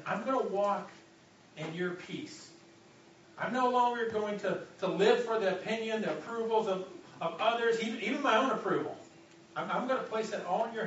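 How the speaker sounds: preacher voicing a surrender prayer with passion; fervent declaration. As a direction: build it like a vow. Congregation's imagined prayer, building.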